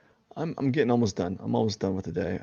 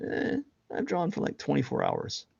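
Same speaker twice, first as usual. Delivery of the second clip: mock braggart; 11 semitones higher than usual. Mocking a bragging artist.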